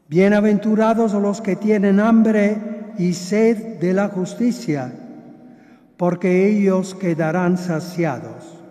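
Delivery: solemn measured scripture reading; gospel reading. Acted. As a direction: read the Beatitudes with gravity. Reads the Gospel aloud.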